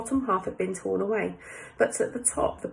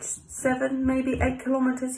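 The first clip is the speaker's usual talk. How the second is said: higher-pitched French local giving directions; French accent; 4 semitones higher than usual. Acted. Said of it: "that's my French accent done".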